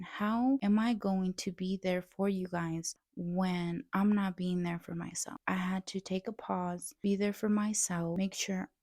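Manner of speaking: usual speaking voice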